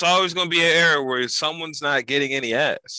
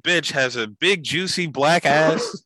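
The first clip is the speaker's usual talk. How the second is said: infomercial voice; 4 semitones higher, slower than usual. Retold or imitated. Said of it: "infomercial voice".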